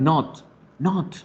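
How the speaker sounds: "not" with a short open English O; short open vowel in "not". Shown as a demonstration. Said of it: "No lo voy a pronunciar como lo digo en español".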